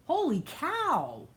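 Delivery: high, drawn-out amazement; astonished. Real, not acted. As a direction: stretch it out in swooping disbelief. Amazed at forty-three Celsius.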